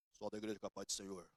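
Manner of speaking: mock pompous pastor intoning into the mic; mocking pulpit voice. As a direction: parody a showy preacher greeting the church. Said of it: "Sabe aquela unção do microfone".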